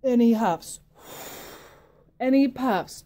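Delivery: loud, punchy huffs and puffs; huffing and puffing. Acted. Storyteller huffing and puffing with the children, loud. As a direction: blow it out hard.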